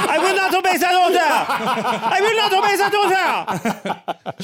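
high, loud mock protest; defiant outburst. Dog refusing a rival's put-down, defiant high outburst. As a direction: cry out in hammed-up defiance.

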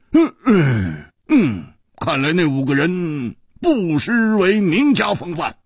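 slow, drawn-out words after a big exhale; relieved sigh. A narrator's reading. Hu Tiehua hearing the elders intervened, relieved sigh. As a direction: exhale in relief, then speak slowly. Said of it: "长长地松了一口气".

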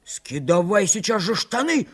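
high, insistent cry; shouted order. A narrator's reading. Санька shakes Митька by the collar, shouting. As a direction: cry out the demand, high and urgent. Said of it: "закричал Санька".

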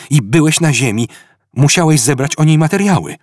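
lively, quick voiced dialogue; character dialogue. Ford and Arthur discussing the guidebook, brisk character voices. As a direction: play both friends talking, briskly.

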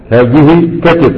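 each word drawn out slowly, كتف stretched; slow, deliberate repeat. Shown as a demonstration. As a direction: say it again slowly so students catch كتف. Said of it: "تقول". (ببطء وتأنٍّ مع مدّ كلمة كتف)

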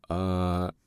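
long confused aah; puzzled drawn-out ah. A narrator's reading. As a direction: drag out a puzzled ah. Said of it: "непонятливо затянул Корнеев".

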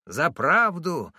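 high, slow, overwrought wail; hysterical cry. A narrator's reading. Beaten driver wails to the gathering crowd, hysterical. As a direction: play the wronged victim in a fit. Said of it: "закатывался Джантай".

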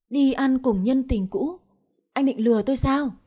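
angry accusation. Acted. Friend accuses Long.

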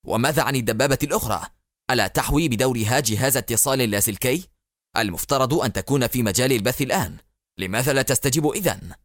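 fast, edgy questions; nervous irritation. Acted. Barak snapping at the pilot about the silent tank, fast and edgy. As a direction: fire the questions impatiently. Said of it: "أجاب باراك في عصبية".

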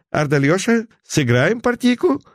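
high, loud call across the room. Acted. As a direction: call out for the whole room to hear. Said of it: "громко проговорил я".

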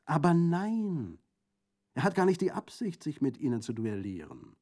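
high, loud exclaimed objection; protesting. A narrator's reading. Prefect denying that a duel is intended, protesting. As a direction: object emphatically, pitch jumping up.

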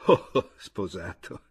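slow, drawn-out exclamation. A narrator's reading. Chojnicki reacting to the narrator's marriage, drawn-out exclamation. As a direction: exclaim it slowly and low. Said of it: "esclamò Chojnicki".

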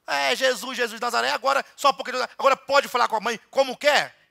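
a touch of outraged churchgoer; mock scolding. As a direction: scold him like an offended parent. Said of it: "Como é que você fala assim com sua mãe".

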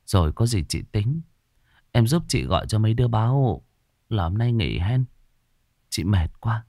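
weary, halting, subdued replies; exhausted brush-off after a shock; dazed and drained. Acted. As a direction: speak in short tired phrases, mind elsewhere. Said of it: "Bà Thu thất thần".

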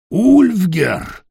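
high, loud call of the name; alarmed shout. Acted. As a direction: cry out to stop him. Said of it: "закричал кто-то".

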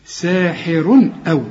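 ساحر أو slow, clear n before the hamza; no nasal hold. Shown as a demonstration. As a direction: join ساحر to أو with an unheld "run". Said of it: "ما تغنش هنا بقى".

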